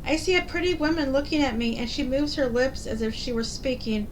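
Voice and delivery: wonderstruck, lifting on dear me; astonished wife. Acted. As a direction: marvel at a strange new sight. Wife marvels at mirror.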